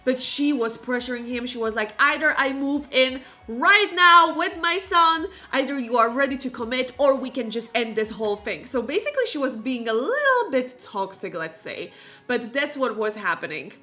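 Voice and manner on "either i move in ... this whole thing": retold threat, starting loud then hurrying; mock ultimatum. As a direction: lay down terms, imitating a pushy partner. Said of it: "threatening him to end the relationship".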